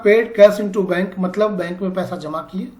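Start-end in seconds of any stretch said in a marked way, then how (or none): 0.0-1.1 slow, carefully spaced dictation. Shown as a demonstration. Teacher dictating to students with pen and copy, slowly. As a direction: read it out slowly so students can write. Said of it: "मैं आराम आराम से बोलूँगा, धीरे बोलूँगा".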